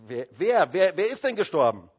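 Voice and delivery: loud, stammered insistent question; retold urgent questioning. Luther pressing his wife to say who died, urgently. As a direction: blurt it out, pressing for the answer.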